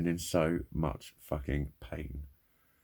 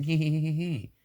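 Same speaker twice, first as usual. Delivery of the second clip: smug mock giggle; 9 semitones higher, 4 dB louder than usual. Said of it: "smug prick's face in front of you going".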